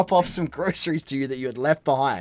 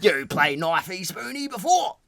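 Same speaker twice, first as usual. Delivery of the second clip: mock Australian shout; 3 semitones higher than usual. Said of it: "try say something as Lee as an Australian".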